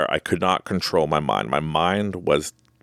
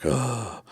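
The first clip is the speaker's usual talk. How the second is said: soft, spent groan, imitated; exhausted sigh; 4 semitones higher, 5 dB quieter than usual. Shaking swimmer out of energy, soft exhausted sigh. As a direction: sigh out as if drained. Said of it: "just out of energy".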